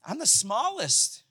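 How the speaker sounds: a touch of deflated agreement; mild resigned self-talk. Pretend. Believing the lie about ourselves, a deflated mumble. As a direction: sigh it out like you believe it. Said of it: "we begin to go".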